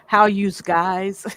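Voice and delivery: a playful, drawn-out Boston accent greeting. Shown as a demonstration. Host asked for their best Boston accent, joking Boston greeting. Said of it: "hear your best Boston accent".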